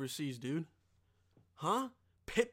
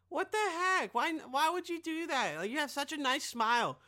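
mock office lady; 8 semitones higher than usual. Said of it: "And she's like".

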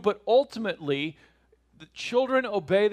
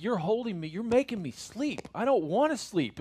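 higher, mock-cranky baby voice; mad baby; 5 semitones higher than usual. Baby fighting sleep in the parent's arms, mock mad. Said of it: "then they get mad and they're like".

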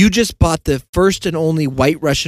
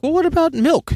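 joking suggestion; 13 semitones higher than usual. Retold or imitated. Joking suggestion, quoted to partner.

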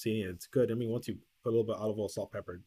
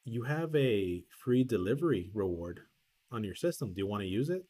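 deliberate clerk recital. Retold or imitated. Clerk's absurd offer, acted slowly.

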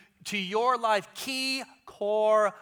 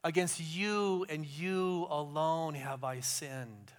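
slow, hushed confession to God; slow contrite plea to God; slow repentant prayer; 3 semitones lower, slower than usual. Retold or imitated. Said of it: "And he says".

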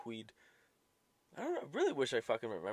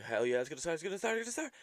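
excited; 7 semitones higher, much faster than usual. Retold or imitated. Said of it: "And then I'm like".

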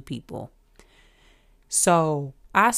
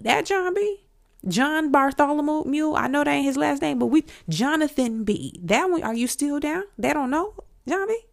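high-pitched incredulous fan rattling off names; excited fan; 7 semitones higher, 3 dB louder than usual. Retold or imitated. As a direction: re-enact starstruck disbelief, pitch jumping up. Acts out excited fan reaction.

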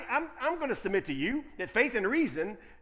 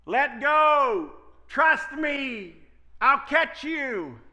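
higher, louder calm voice from below; voice from the darkness; 7 semitones higher, 6 dB louder, much slower than usual. Acted. Unseen voice answering the hanging man, reassuring. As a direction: call up reassuringly, the last line slow. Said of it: "a voice from the darkness say".

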